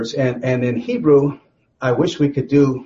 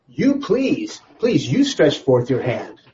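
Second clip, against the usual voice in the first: polite request; slower than usual. Acted. Satan asking God to stretch forth his hand, politely. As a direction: ask politely, leaning on "please". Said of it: "A polite form".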